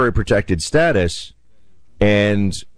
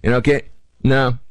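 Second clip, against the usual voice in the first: higher, hammed-up host pushing back; mock-stern homeowner; host telling the guest his stay is over, higher and firm; 6 semitones higher than usual. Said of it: "You say".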